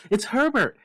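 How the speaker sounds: loud, high frantic scream. Acted. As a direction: scream her son's name in hope. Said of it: "she screamed".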